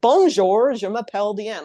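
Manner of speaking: mock schoolkid French with a heavy American accent; terrible American French accent. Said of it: "like, terrible accents".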